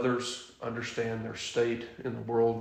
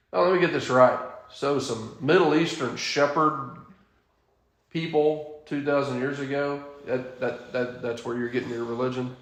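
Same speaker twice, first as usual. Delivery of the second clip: mocking sceptic; 2 semitones higher, 5 dB louder than usual. Preacher mimics scoffers to his class, mock sneering. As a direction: scoff like a smug critic of religion, half-hearted. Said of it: "he says stuff like this".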